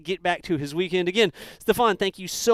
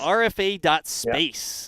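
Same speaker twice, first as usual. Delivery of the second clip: R F A dot space repeated slowly, letter by letter; much slower than usual. Shown as a demonstration. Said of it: "That's what it is".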